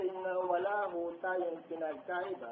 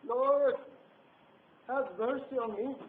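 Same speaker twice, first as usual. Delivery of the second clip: higher, louder, desperate appeal; pleading cry; 6 semitones higher, 8 dB louder, slower than usual. Retold or imitated. Preacher acting out a desperate loud plea to God. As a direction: call out to the Lord begging. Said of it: "tayo nakapikit at tayo sumisigaw".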